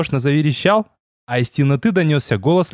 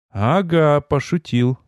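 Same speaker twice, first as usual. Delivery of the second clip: reluctant; slower than usual. Acted. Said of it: "С трудом заставил я себя произнести".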